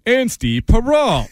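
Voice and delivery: slow, evenly spaced robotic announcer. Retold or imitated. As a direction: read the name like a robot. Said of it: "in like a robot voice".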